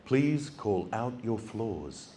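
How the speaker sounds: low, soft, slow machine announcement; robotic lift voice. Retold or imitated. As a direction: speak like a calm talking lift. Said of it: "this voice rings out".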